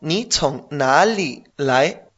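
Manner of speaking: slow and careful, "nali" rising at the end; slow teacher demonstration of the question; slow model phrase. Shown as a demonstration. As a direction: spell it out slowly for a learner. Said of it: "si te digo".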